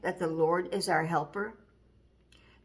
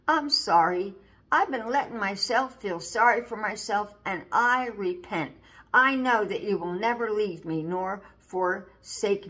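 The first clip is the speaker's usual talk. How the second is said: repentant prayer; 2 semitones higher than usual. Shown as a demonstration. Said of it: "pick yourself up ... and say".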